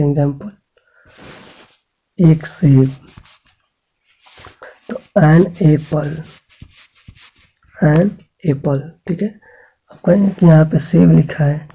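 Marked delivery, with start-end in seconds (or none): 4.9-6.2 slow model reading. Shown as a demonstration. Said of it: "model reading for pupils". 7.7-8.8 slow model reading. Shown as a demonstration. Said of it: "model reading for pupils".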